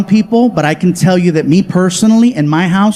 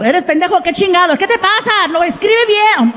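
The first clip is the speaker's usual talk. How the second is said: high mock scolding in Spanish; scolding family; 10 semitones higher than usual. Comic's family scolding him over the tweet, high and shrill. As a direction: nag him like an exasperated auntie. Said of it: "my family called".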